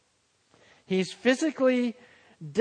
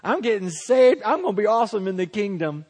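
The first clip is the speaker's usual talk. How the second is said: mock a proud sinner who thinks God is lucky; cocky sinner; 3 semitones higher, 4 dB louder, faster than usual. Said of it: "We don't come to the cross and go".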